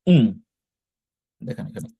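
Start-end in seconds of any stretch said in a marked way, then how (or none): 0.1-0.2 "উম" hummed with closed lips, a nasal m; pronunciation demo. Shown as a demonstration. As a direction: model "উম" as a lips-shut hum. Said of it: "কিন্তু single এটার উচ্চারণ হবে". (শিক্ষক বোঝাচ্ছেন: "উম" মুখ বন্ধ করে উচ্চারণ)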